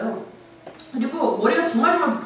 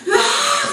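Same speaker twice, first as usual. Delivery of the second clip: scream; much slower than usual. Retold or imitated. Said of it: "소리 지르다가요".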